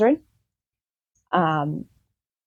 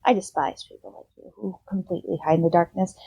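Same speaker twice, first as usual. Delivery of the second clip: put-on old woman's disdain; 3 dB quieter, faster than usual. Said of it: "she goes".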